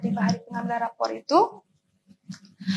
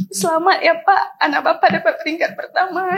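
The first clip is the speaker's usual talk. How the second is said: crying through laughter; 3 semitones higher, 4 dB louder than usual. Real, not acted. Retelling the teacher's happy news.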